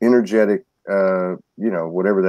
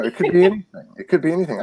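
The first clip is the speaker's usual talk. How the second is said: excited; 8 semitones higher, faster than usual. Real, not acted. Excited about possibilities.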